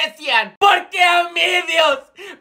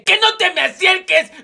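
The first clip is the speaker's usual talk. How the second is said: panicked shout; 5 semitones higher, 3 dB louder than usual. Acted. Profe insiste asustado.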